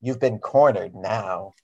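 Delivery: slow drawn-out WWE promo line; wrestling promo. Shown as a demonstration. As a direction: lean into the wrestling hype, slowly. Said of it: "let me say".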